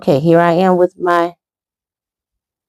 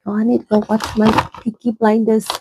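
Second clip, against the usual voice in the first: lightly hammed-up Irish lilt, higher; fake Irish accent; 6 semitones higher, faster than usual. Mum to daughter about the show, in a mock Irish accent. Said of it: "fake it, like".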